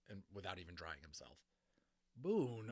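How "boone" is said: firm call of his name; stern calling out. Acted. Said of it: "Omri said sternly".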